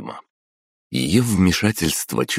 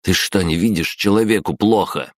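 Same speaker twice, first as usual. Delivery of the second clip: mild growl of urgency; 4 semitones higher than usual. A narrator's reading. Oleg growls at the guard to help the girl, mild growl. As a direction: snap it out a little higher. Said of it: "рыкнул в ответ Олег".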